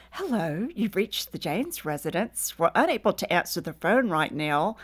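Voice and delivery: imitation of a sweet answering-machine greeting; sweet Southern voice. Recorded greeting to callers, sweet Southern voice. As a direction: recite it politely, Southern and sweet. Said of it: "It's a little sweet southern voice".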